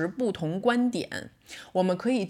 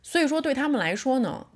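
ordinary talk, nothing marked

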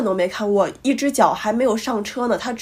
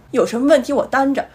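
mock self-righteous driver, rising; imitating a smug driver brushing it off; 3 semitones higher than usual. Quoting the rude driver's smug excuse, mock self-righteous. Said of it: "就非常理直气壮的语气说".

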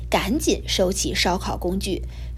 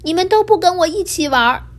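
crying; 8 semitones higher, 4 dB louder than usual. A narrator's reading. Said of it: "小乌云难过的大哭了起来".

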